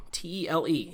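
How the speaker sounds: "T E L E" as four separate letters; spelled out letter by letter. Shown as a demonstration. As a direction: read "T E L E" as separate letter names. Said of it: "the word tele".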